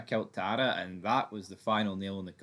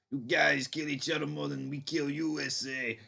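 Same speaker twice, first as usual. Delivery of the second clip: put-on South African accent; 4 semitones higher than usual. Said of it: "putting the S A accent on Quinn".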